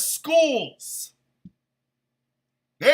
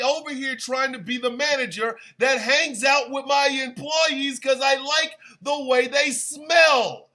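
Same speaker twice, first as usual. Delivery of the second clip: shouting; 2 semitones higher than usual. Real, not acted. Ranting at voters.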